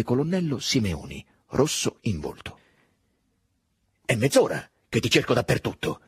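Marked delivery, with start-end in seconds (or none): 4.0-6.0 louder agitated exclamation; exclaimed. Acted. Simeoni exclaims to Drogo after searching everywhere, agitated. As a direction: burst out hurried and worked up. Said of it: "esclamò a Drogo".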